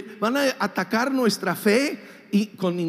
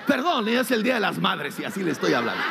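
laughing aside; 3 semitones lower, much faster than usual. Real, not acted. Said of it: "apologetic aside".

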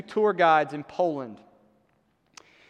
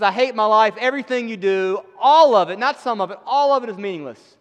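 forceful preaching; 3 semitones higher, 6 dB louder than usual. Acted. Preacher's declaration voiced aloud.

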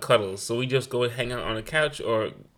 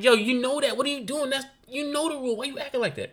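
higher Brooklyn mom scolding; Brooklyn accent; 12 semitones higher than usual. Retold or imitated. Mother scolding her kids in a higher Brooklyn accent. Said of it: "I've been Brooklyn on them".

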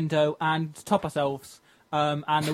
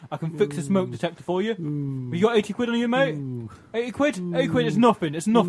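put-on cockney wide-boy patter; dodgy car salesman; 4 dB louder than usual. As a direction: sell it like a dodgy geezer. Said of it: "I'm a disreputable second card salesman".

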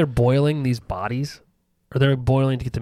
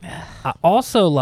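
slow hillbilly twang, slightly raised pitch; hillbilly accent; 4 semitones higher than usual. Real, not acted. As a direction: let a hillbilly drawl slip out. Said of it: "I sound such a hillbilly".

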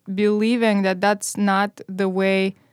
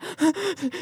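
mock child gasp; 7 semitones higher, 5 dB quieter than usual. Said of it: "like, they're, like".

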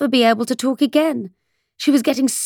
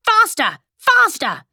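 high, falling cries to hurry; urgent cry; 8 semitones higher, slower than usual. A narrator's reading. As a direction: urge a runner on in a high voice. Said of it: "the Queen kept crying".

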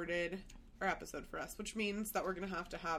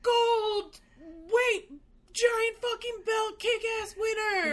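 booming, slow announcer, much higher and louder; giant radio voice; 13 semitones higher, 7 dB louder, much slower than usual. Pretend. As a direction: announce it like a title belt. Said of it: "like a giant radio voice".

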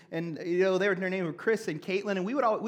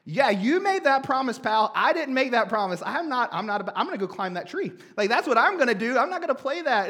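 louder, higher mock comeback; indignant kid retort; 4 semitones higher, 5 dB louder than usual. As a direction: fire back like a stubborn boy. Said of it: "I was like".

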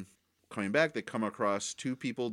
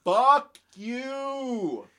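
sudden high shouted curse at the screen; yelled curse; 13 semitones higher, 6 dB louder than usual. Retold or imitated. Friend retelling watching the episode, shouting at the screen. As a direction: yell it out, furious at the unfair ending. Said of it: "I yelled out loud".

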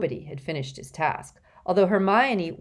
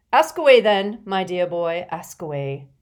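hearty, fading invitation; jolly professor voice; 8 dB louder than usual. A narrator's reading. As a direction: wave him on genially. Slughorn invites question cheerfully.

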